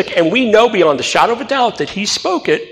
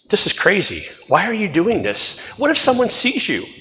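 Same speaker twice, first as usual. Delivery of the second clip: inner doubting voice; 2 semitones higher, 5 dB quieter than usual. Retold or imitated. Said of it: "my mind starts going".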